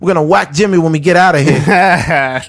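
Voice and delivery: hammed-up New York Italian accent, fast; mock mobster, laughing. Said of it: "Italian mobster".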